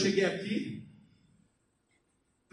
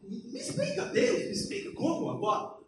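high, breathless pleading to God; 10 semitones higher, 3 dB quieter than usual. Retold or imitated. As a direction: beg God for an answer, up high and hushed. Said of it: "eu falei".

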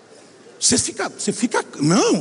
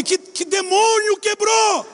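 panicked question; 11 semitones higher, much slower than usual. Retold or imitated. Panicked in paragliding retelling.

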